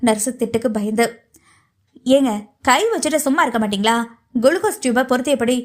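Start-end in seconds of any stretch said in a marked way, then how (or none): 2.1-5.6 light, good-humoured telling-off; amused chiding. Acted. Nurse refitting the patient's drip, amused and lightly chiding. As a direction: chide the patient with a hint of amusement. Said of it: "சிரித்துக்கொண்டே கேட்ட".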